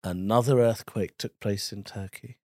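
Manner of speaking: measured, formal headline read; newsreader voice. Shown as a demonstration. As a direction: read it as a sober bulletin. Demonstrates insincere news read.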